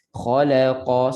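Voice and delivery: slow "Khalaqa", each syllable given one equal beat. Shown as a demonstration. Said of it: "sebut satu-satu". ("Khalaqa" disebut satu-satu)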